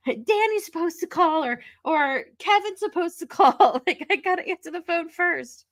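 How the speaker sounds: put-on high, eager kid voice; anxious kid. Sister racing siblings to the phone, high eager. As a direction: rush to grab the phone first. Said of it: "She's like".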